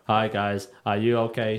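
imitating android voice. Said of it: "speaking like an android".

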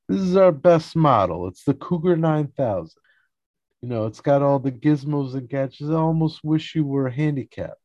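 high, loud hammed-up sales patter; salesman pitch. Salesman showing George and Kramer a wheelchair, hammed-up pitch. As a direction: talk up the product like an eager salesman.

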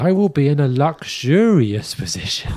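pompous. Retold or imitated. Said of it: "quoting with pomp".

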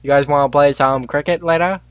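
badly faked English accent; poor English accent. Joking to friends about cricket, bad English accent. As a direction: have a weak go at sounding English. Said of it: "my poor attempt at an English accent".

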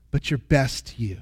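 soft whispered aside. Acted. Preacher whispering the promise to the congregation. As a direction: drop to a hushed whisper. Whispered echo of repeated phrase.

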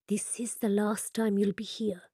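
hushed whisper behind a hand; cupped hand whisper. Acted. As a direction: whisper it close and secret. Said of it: "He cups his hand to whisper".

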